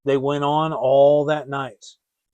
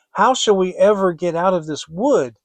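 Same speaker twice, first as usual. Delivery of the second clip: a touch of tearful worry in Gretel's voice; a lightly voiced frightened girl, close to tears; crying; 4 semitones higher, 6 dB louder than usual. Lost girl asks her brother, lightly tearful. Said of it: "Gretel began to cry and said".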